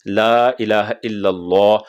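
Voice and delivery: slow ला इलाहा इल्लल्लाह with full heavy lam. Shown as a demonstration. Teacher modelling a full lam in the adhan. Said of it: "लाम को पुर पढ़ने".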